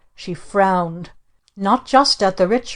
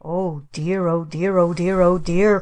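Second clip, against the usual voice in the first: mild mock dismay. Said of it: "cried our mother".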